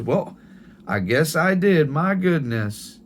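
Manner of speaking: a grandmother marvelling at her own past; grandma's voice. Retold or imitated. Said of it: "And she goes".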